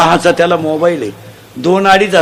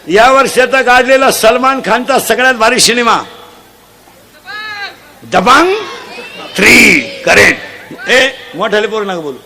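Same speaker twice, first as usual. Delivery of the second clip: ordinary delivery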